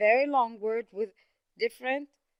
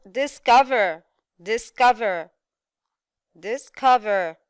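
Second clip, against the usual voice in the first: discover with COV punched loud; stress on second syllable; 6 dB louder than usual. Shown as a demonstration. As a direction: hit the "cov" in discover, falling after it. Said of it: "We have the second syllable".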